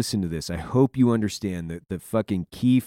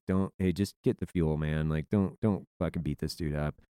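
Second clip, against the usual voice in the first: low, soft, unbothered retold aside; nonchalant; 8 semitones lower, 9 dB quieter than usual. Team leader calmly holding back the angry gunner, nonchalant. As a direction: play the big, easygoing team leader, quietly. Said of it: "like, nonchalant".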